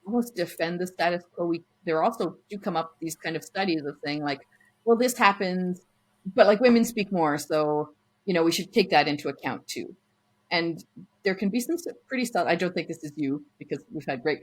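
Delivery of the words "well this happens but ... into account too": mock objection. Imitating someone defending the status quo, insistent objection. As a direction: push back as an imagined objector.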